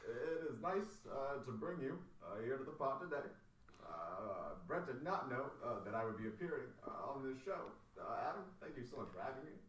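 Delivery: light Obama voice, unhurried with pauses and uhs; Barack Obama impression. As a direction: play the president politely greeting the show, lightly. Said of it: "And I'm Barack Obama".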